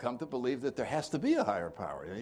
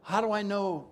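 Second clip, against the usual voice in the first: high, slightly laughing skeptical question; high doubtful question; 7 semitones higher, 4 dB louder than usual. Retold or imitated. Speaker questioning his sponsor, high laughing doubt. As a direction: ask it like you can't believe him. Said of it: "I said".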